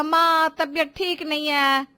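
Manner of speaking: mocking son's excuse. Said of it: "अब तू कहेगा".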